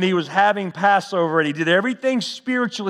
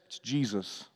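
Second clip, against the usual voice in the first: hushed reveal; 8 semitones lower, 13 dB quieter than usual. Acted. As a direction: drop almost to nothing on the name. Revealing the commander's identity.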